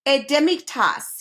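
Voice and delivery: slow, careful French words; careful French menu. A narrator's reading. The king recites his fancy French menu, slowly and carefully. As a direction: savour each French dish name slowly. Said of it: "he said carefully".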